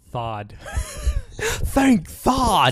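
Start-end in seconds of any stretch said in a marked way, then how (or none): 1.4-2.7 high lisping Mike Tyson voice; Mike Tyson impression. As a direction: mimic Tyson's lisp on "Thank Thod". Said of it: "You kinda sound like Michael Tyson".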